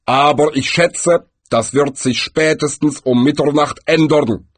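composed, measured voice of Death; calm Death. A narrator's reading. Death forecasts the party's turn, calm. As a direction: predict it with unruffled composure. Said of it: "antwortete Tod gelassen".

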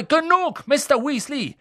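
high, loud rebuke; stern cut-off. Acted. McGonagall silencing Ron, loud. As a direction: cut him off sharply.

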